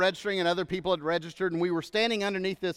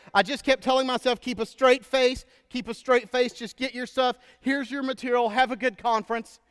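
embarrassed laughing; 5 semitones higher than usual. Retold or imitated. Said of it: "she said".

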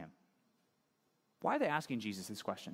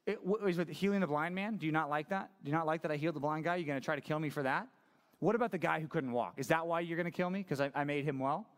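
sarcastic. Retold or imitated. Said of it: "he's asking a sarcastic question".

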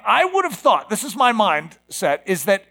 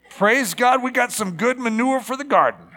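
raised, upbeat praise; cheerful thankfulness; 4 semitones higher than usual. Acted. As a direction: make the best of a mess, brightly. Acted thankful response to manure.

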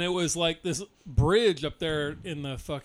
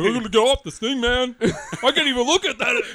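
imitating panic; 7 semitones higher, 6 dB louder than usual. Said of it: "He's like".

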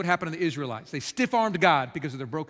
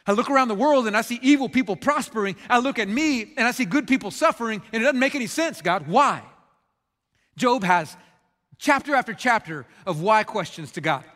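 raised, pressing demand for answers; impassioned protest; 3 semitones higher, 4 dB louder than usual. Acted. Job demands justice from God, in raised protest. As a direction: plead the case hard, hammering the questions.

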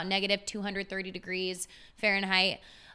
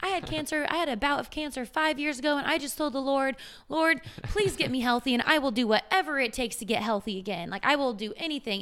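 higher, light imitation of a sweet Southern accent; 5 semitones higher than usual. Retelling the gym granny's words, sweet Southern accent. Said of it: "she had the sweetest little Southern accent".

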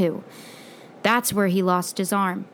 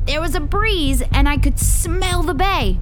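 high, loud, dramatic storytelling; excited, spooked account; 6 semitones higher, 5 dB louder than usual. Acted. Boy tells friends of dropping flashlight in darkness, excited. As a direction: relive the scare at full energy, voice raised. Boy recounts scary cave discovery.

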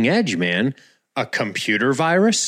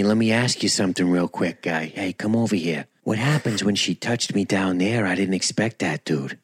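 lower, confidential Boston bro; bad Boston accent; 4 semitones lower, 3 dB quieter than usual. Puzzled Boston guy confiding in pal Johnny, bad Boston accent. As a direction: take a pal aside in mock Boston. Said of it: "he's got a shitty Boston accent now".

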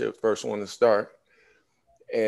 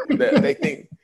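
excited quote; 5 dB louder than usual. Retold or imitated. Coach tells him he may go pro.

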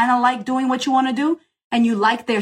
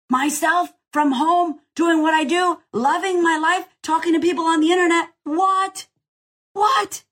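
much higher, building to incredulous squeaks of What; stunned disbelief; 7 semitones higher than usual. Retold or imitated. Coach reliving making half a million, rising in disbelief. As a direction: climb higher and higher in shock. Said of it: "What the fuck do you think that did".

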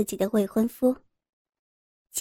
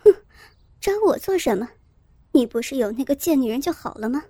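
cold sneer; faster than usual. Acted. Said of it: "周慧敏冷笑".

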